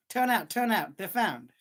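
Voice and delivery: calling out the good news; excited shout. A narrator's reading. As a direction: shout it across the streets. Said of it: "people who shouted".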